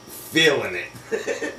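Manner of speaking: slow, stretched mock with a laugh; mocking drawl. Mocking the mother-in-law in church, slow laughing sneer. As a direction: draw out "Feeling it" slowly, laughing at it. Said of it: "acting a fucking fool".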